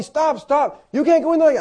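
high, loud mock shout of stop; imitating a guard shouting; retold guard's yell. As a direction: play the Marine yelling at the gate. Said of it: "he's yelling at me".

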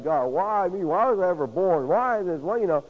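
acting out a sufferer's complaint; questioning God. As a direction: plead upward, one why after another. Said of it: "begin to question God".

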